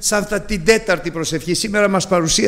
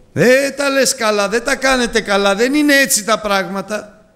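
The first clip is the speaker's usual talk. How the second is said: raised, lecturing voice of a critic; high and reproachful; mock scolding brother; 5 semitones higher than usual. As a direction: play the judging brother.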